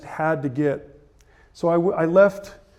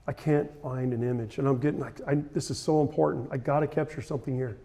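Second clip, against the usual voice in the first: frustrated; 3 semitones lower, 8 dB quieter than usual. Retold or imitated. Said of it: "I'm getting frustrated".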